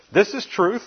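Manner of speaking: high, loud and forceful; stout. Retold or imitated. Preacher voicing Jesus's stern ultimatum, loud and high. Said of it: "it's stout".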